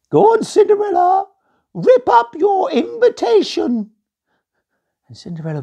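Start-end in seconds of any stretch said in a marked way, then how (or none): 0.1-3.9 high, slow furious shouting; angry shout. A narrator's reading. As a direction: scream the order at her. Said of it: "looked really angry and came closer".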